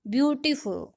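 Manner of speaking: ब्यूटीफुल falling away after ब्यू; weight on ब्यू, टीफुल left unstressed; stress on first syllable. Shown as a demonstration. Teacher repeating the dactyl example, ब्यू stressed in ब्यूटीफुल. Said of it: "ब्यू पे हमने जो है वो stress दिया".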